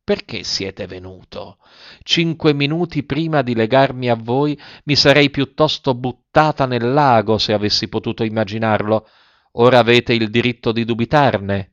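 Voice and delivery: a short, tense, cutting reply; curt, agitated voice. Acted. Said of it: "con voce breve e concitata".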